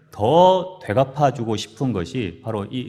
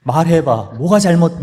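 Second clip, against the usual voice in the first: loud, raised-pitch mock grilling; angry interrogation; 6 semitones higher, 9 dB louder than usual. Wife pressing husband to admit his fault, angry interrogation. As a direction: demand an answer, hammering each phrase.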